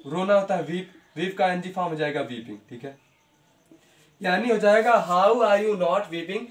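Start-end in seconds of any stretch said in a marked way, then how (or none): 4.2-6.4 each word drawn out for the class; slow, deliberate teacher's read-out; slow dictation. Shown as a demonstration. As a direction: dictate the answer word by word, slowly. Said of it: "teacher dictating the answer".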